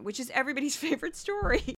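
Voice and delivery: rueful laugh through the words; quick, sarcastic line broken by a laugh; laughing to keep from crying. Real, not acted. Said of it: "my laughing to keep from crying laugh".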